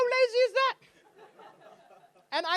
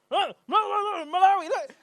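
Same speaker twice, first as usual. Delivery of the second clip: louder, higher lightly German officer; mock German official, puzzled; second officer in a faint German accent; bad German accent; 8 semitones higher, 11 dB louder than usual. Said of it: "I can't do a German accent".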